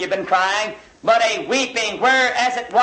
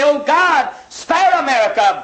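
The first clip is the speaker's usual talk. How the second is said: crying out to God; 4 semitones higher than usual. Acted. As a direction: beg God aloud to spare the nation. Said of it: "cry out and say".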